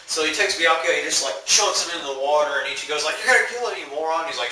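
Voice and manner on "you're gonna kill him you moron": outraged yell. Retold or imitated. Ichigo yelling at the healer dunking Byakuya, outraged. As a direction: yell it in horrified disbelief.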